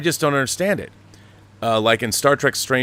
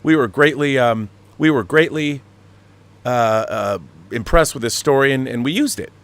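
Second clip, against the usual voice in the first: lightly voiced fumbling interviewee, a bit higher; mild mocking Kurtzman; mock Alex Kurtzman; 3 semitones higher than usual. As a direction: hem and haw like a caught-out producer. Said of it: "does interviews".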